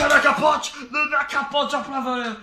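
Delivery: delighted by the mid-air move; laughing shout. Real, not acted. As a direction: laugh through the call.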